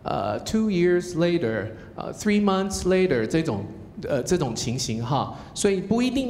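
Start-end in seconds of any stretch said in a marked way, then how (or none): 0.4-1.7 slow "two years later" with a flat Chinese-style "years"; drawn-out "two years later", stress on "two"; quoting the students. Retold or imitated. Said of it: "表演的中间有那个".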